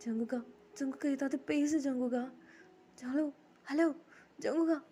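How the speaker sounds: acted desperate plea; tearful pleading. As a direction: call out as if crying, building. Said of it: "எதுக்கு அழுகுற".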